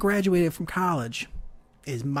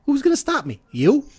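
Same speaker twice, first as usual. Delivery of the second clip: louder, higher mock-tough retort; defiant challenge; 8 semitones higher, 5 dB louder than usual. Dad to the theater usher, defiant challenge. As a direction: imitate a dad daring someone to try. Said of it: "And he goes".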